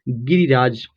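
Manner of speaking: low, slow गिरिराज in two parts, गिरि-राज; slow sounding out. Shown as a demonstration. Teacher models the word for learners, slow sounding out.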